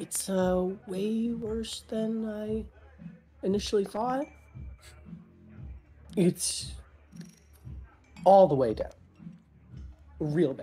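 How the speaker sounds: hushed, paranoid voice. Game master voices a character turning back to another character, quietly, paranoid. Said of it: "kind of quietly say".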